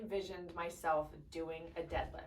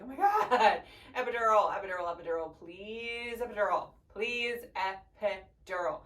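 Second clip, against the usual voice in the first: retold begging; 4 dB louder than usual. Mother replays begging nurse for an epidural, mock-desperate pleading. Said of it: "but I begged".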